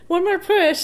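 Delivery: mock urgent command. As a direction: call it out like the midwife pushing her on. Retelling midwife's order.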